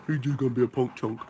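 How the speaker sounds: playful talk to a dog; teasing pet talk. Real, not acted. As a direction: tease the puppy in a pet-talk voice. Teasing his dog on the couch.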